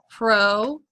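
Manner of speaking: "Protect" broken as PRO, long pause, TECT; "Protect" pulled apart for spelling; syllable by syllable. Shown as a demonstration. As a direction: dictate "Protect" in two separated syllables. Dictating a word by syllables.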